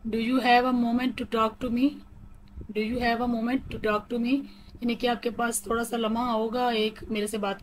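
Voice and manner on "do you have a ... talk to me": very slow, words spaced out evenly; slow robotic reading. Shown as a demonstration. Teacher showing how to interrupt politely, slow and robotic. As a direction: lay out each word for learners. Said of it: "थोड़ा robotic वे में पढ़ के बता रही हूँ".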